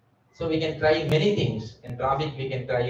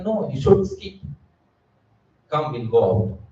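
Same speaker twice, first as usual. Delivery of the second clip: tempting friend; 2 semitones lower than usual. Retold or imitated. Material friend coaxing a devotee to skip, lightly voiced tempting. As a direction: lure them away from the program.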